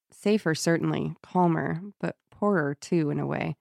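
measured read-aloud, softening at phrase ends; story narration. A narrator's reading. Host reading how she misses Julian, story narration. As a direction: read the closing passage evenly. Reads novel's sad closing passage.

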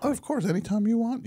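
emotional, voice cracking. Real, not acted. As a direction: let the voice crack with feeling. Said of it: "Your voice just cracked".

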